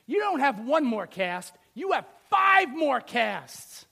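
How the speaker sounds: a father's firm, generous declaration; emphatic father. Retold or imitated. Father changes his mind, son fishing.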